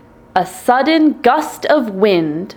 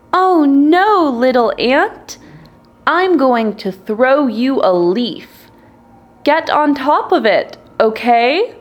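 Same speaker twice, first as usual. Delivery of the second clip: bird voice; 5 semitones higher than usual. Acted. Bird character rescuing the ant.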